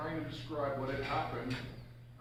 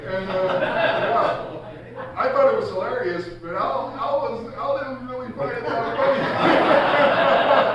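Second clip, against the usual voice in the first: louder, laughing through the words; 7 semitones higher, 10 dB louder, much slower than usual. Real, not acted. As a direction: chuckle through the line. Laughing at own story.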